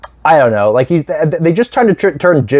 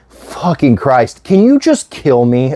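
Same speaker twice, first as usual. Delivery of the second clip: exhausted plea; slower than usual. Retold or imitated. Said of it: "does a good job of just being exhausted".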